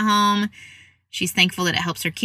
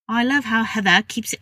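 put-on higher, botched Australian accent slipping into British; attempted Australian accent; 4 semitones higher than usual. Podcast host reading a listener's review in a botched Australian accent. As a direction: have a bad go at an Australian accent. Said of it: "say this in an Australian accent".

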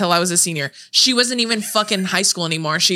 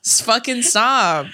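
retold exasperation, higher with drawn-out final stop; exasperated protest; 3 semitones higher, much slower than usual. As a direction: beg her to quit, stretching the last word. Retold pleading with sister to stop.

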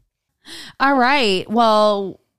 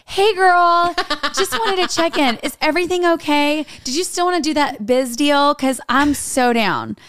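high, bright-voiced casual "hey girl" talk, pitched way up; bubbly girly accent; 4 semitones higher than usual. Imitating her own casual business message in a high girly voice. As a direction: sound like a chipper friend texting a work contact. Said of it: "not necessarily with that accent".

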